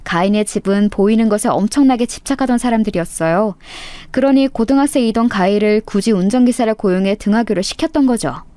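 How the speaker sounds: plain reading voice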